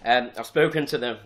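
restarting the sentence while laughing. Real, not acted. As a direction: laugh through the words.

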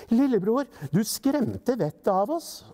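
high-pitched, mildly cross scolding; angrier. A narrator's reading. Mother scolds lillebror who frightened them, mildly angry. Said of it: "de bare ble sintere".

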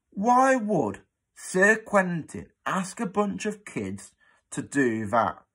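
put-on slow, high suspicious old cleaner. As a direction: drag it out, full of suspicion. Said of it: "demanded Dilly".

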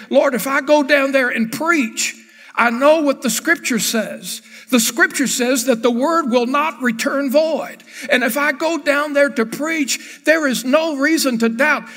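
Jonah protesting. Retold or imitated. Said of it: "He was saying".

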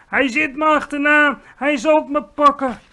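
high, loud panicked shouting; wild screech. A narrator's reading. Dreaming giant believes he is being chased, high frantic screech. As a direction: scream it like you are being hunted. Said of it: "krijste de vleeslapeter woest".

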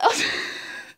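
loud burst of laughing; laughter breaking through. Real, not acted. Breaking character during a Jeff impression, laughing. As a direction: crack up mid-act.

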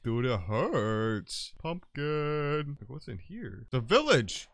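ordinary talk, nothing marked

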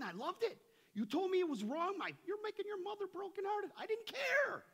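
climbing preacher's cry of defiance; fiery preaching. Real, not acted. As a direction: preach it hard, defiant rebel at full force. Preaching his rebel past, building.

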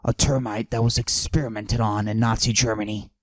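macho voice pushed down, held the whole bit; forced deep voice. Acted. Comic bragging to the audience in a forced deep voice. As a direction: fake a deep tough-guy voice. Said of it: "I deepen my voice like this".

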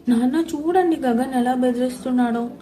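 mild whiny complaint to dad; complaining. Acted. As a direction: tell on him, lightly. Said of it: "అన్నాను complaint ఇస్తున్నట్టు".

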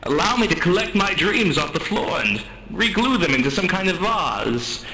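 mock anguish. Mock-tragic speech of wounded anguish.

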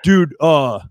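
put-on the nervous young comic asking in earnest; real serious. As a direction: ask it dead serious, a little anxious. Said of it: "he gets real serious".

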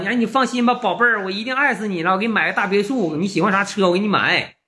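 hammed-up cheesy reassurance to a sweetheart; mock sweet-talking. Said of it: "一天老肉麻了聊的".

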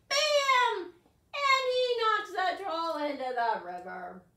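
high, loud storyteller burst; thrilling storyteller voice as the troll falls; dramatic climax. A narrator's reading. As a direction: make the crash exciting.

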